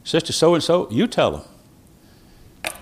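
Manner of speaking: put-on a pastor tenderly urging an old lady to speak; gentle. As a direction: coax her kindly, drawing it out slowly. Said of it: "he didn't say it in that tone of voice".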